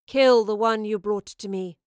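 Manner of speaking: loud goddess's command; commanding order. A narrator's reading. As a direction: order the kill with authority. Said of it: "she ordered".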